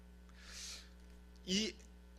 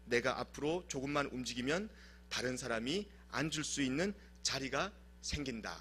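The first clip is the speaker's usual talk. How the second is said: reading the letter; 3 semitones lower than usual. Retold or imitated. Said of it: "딸에게 보내는 편지, 바로 이렇게 이야기합니다".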